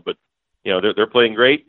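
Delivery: ordinary delivery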